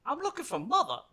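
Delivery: high, put-on old man voice; squeaky old gentleman in a mech; old miner's voice. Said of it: "He pops up, he goes".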